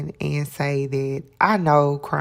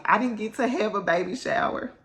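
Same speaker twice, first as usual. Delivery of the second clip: tearful; 5 semitones higher than usual. Real, not acted. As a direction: voice wavering on the edge of tears. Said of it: "Oh, I'm crying".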